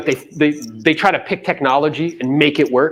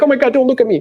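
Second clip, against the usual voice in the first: high-pitched mock alarm, hurried; playful imitation of flustered self-consciousness; embarrassed crier; 11 semitones higher, faster than usual. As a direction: act out someone hiding their tears. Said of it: "Do they try to hide the tears?".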